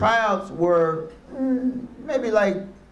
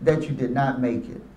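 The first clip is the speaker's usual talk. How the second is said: reading the email; 5 semitones lower than usual. Retold or imitated. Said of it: "the email read".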